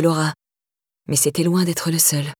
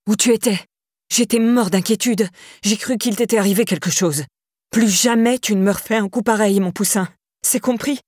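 worried father; 3 semitones higher than usual. Acted. Father catching his daughter sneaking home, mildly worried scolding. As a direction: scold her with relief underneath. Father waited all night.

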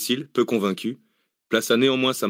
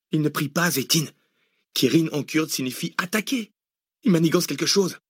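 urgent, higher-pitched underling; alarmed militiaman; 8 semitones higher than usual. A narrator's reading. Militiaman warns his chief of an attack, high and urgent. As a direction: warn the boss in a high voice.

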